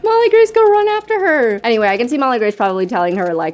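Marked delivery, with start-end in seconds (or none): 0.0-1.6 high-pitched call to a game character; playful urging. Pretend. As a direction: call out urgently, half in play. Urges Sim to follow.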